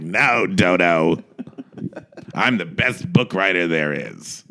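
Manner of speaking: low, slow, pompous put-on voice; mock grandee, words stretched out; Arthur Lawrence. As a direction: drawl it low and self-important. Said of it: "Arthur Lawrence like".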